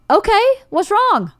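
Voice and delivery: high, slow mock-patient question; retold high-pitched placating; humoring him. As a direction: imitate carefully indulging a grump. Acting herself humoring upset husband.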